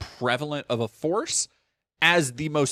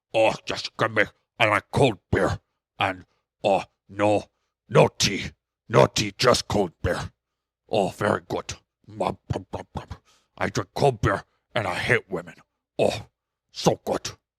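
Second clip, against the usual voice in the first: put-on low, drunk, puppet-like monster voice; 6 semitones lower than usual. Mocking a man's view of cold beer: alcoholic Cookie Monster voice. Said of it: "alcoholic Cookie Monster".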